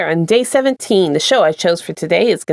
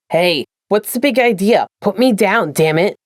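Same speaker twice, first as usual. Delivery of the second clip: cursing Dean. Acted. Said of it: "Dean cursed".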